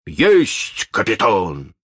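eager, pleased pirate reply; gleeful. Acted. Jukes gladly answers his captain. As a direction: snap to it with glee. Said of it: "обрадовался Джукс".

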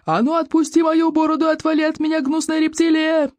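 high, sustained angry yell; outraged acted bellow, stretched at the end. A narrator's reading. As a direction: order the beast off at the top of your range. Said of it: "заорал Стоик Обширный".

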